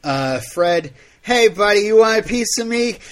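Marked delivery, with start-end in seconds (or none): 1.2-3.0 put-on loud, high drunken challenge; belligerent drunk. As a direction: pick a fight, drunk and loud. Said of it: "That was my drunk Fred".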